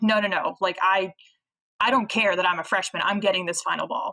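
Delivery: plain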